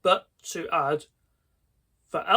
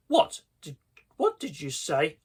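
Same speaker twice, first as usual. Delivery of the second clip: demanding. Acted. Boy hearing the friends won't come, shocked demand. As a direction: bark it in disbelief. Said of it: "I demanded".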